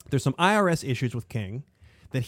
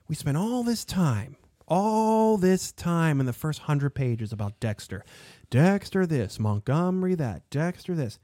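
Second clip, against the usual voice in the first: exasperated griping; 4 semitones higher, slower than usual. Real, not acted. Griping about the book's long focus.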